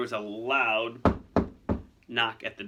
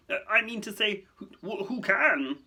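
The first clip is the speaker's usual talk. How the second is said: high, stammering panic; flustered; 10 semitones higher, 4 dB louder than usual. Acted. Fudge pleading with Lucius, stammering and flustered. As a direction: trip over the words, then blurt it. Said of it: "upper lip was sweating".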